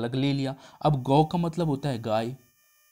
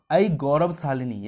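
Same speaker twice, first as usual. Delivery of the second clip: flattering address. Retold or imitated. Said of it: "बेहतर बोलने किस तरीके से बोला".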